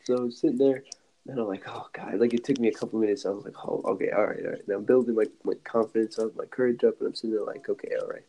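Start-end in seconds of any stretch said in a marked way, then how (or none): 1.7-2.2 breathy whispered oh God; nervous whisper. Retold or imitated. Sitting there anxious, whispering to himself. 3.7-4.6 whispered okay, all right; whispered self-pep talk. Retold or imitated. Building courage before telling her, whispering. 7.7-8.2 whispered okay, all right; whispered self-pep talk. Retold or imitated. Building courage before telling her, whispering.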